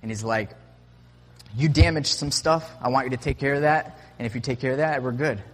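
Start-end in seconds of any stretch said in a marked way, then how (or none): 1.6-5.4 louder, higher quoted bar owner; retold firm demand. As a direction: lay down the terms, voice raised, as retold. Retold bar owner laying down terms.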